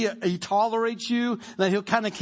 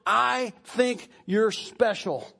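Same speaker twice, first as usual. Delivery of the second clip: reassuring voice of God; slower than usual. Retold or imitated. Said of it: "He says".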